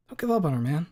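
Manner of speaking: high, pleading buddy; pleading bro voice. Acted. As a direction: beg a friend gently. Leon pleading.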